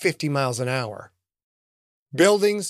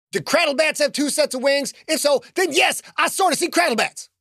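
higher, younger voice, unsure of what he sees; a jittery teen squinting at the sky; young Billy, uneasy; 11 semitones higher than usual. Acted. Billy unsure, calling to the man in gray.

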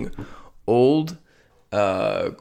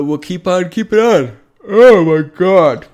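pitched up and louder, swallowed by a big yawn; 8 semitones higher, 10 dB louder than usual. Real, not acted. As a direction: let the yawn take over the words. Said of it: "yawning there".

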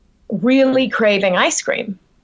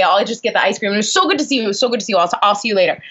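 manic small talk; faster than usual. Retold or imitated. Actor making excuses to escape a director, manic. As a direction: babble cheerfully, rushing towards an exit. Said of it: "like, manic".

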